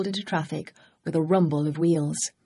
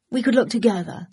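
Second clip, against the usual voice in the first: pleading; 5 semitones higher than usual. Acted. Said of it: "Ed pleaded".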